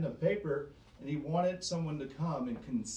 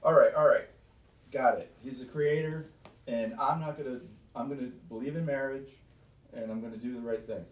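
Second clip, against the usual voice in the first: mock grudging churchgoer; 2 semitones lower, 4 dB louder, faster than usual. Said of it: "And many would say".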